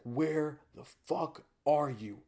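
loud, angry father yelling down the phone; mock furious father on the phone; angry dad. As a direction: chew him out like a furious dad. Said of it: "He's like".

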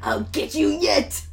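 slow hammed-up threat; vengeful threat. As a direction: swear mock-dramatic revenge. Co-narrator acts Akira's threat.

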